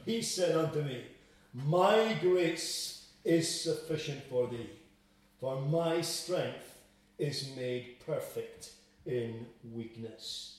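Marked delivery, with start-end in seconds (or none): 1.5-10.6 slow solemn verse. Shown as a demonstration. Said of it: "verse read then restated".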